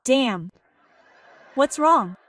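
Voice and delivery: exasperated fake sympathy; mock concern. A wife faking worry for her sick husband, exasperated. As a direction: sigh then ask what's wrong. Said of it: "you tell him".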